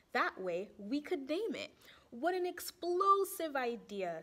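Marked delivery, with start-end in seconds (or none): 2.1-4.2 thrilled by the idea; cheerful teacher voice; happy excitement. Acted. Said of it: "said Miss Fizzle happily".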